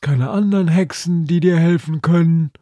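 lightly voiced Lilith asking for help; Lilith, questioning. A narrator's reading. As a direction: ask it as the concerned friend Lilith. Lilith's lines in the story.

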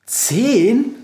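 high, amazed rising question; thrilled, incredulous query; excited. A narrator's reading. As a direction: exclaim it in disbelief, pitch leaping up. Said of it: "fragt Befana aufgeregt".

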